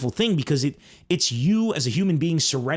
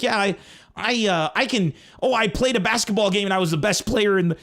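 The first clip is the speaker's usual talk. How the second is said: made-up brag; 7 semitones higher than usual. Retold or imitated. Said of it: "I'd make stories up like".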